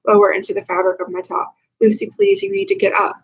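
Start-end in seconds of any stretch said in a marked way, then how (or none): 1.8-3.1 urgent plea, pitch jumping up on Lucy; pleading with a friend who has given up. Acted. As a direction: beg her to get up before it's too late. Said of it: "I plead".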